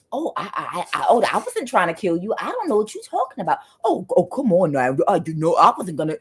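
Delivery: flustered, fast fake denial; gaslighting denial. The accused person denying to the viewer, flustered mock innocence. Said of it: "they're gonna".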